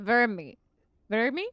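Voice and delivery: "Vermy" with a V in place of W; "Vermy", copying an odd way of saying wormy; imitated pronunciation. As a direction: try out "Vermy", V at the front. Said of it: "Little vermy".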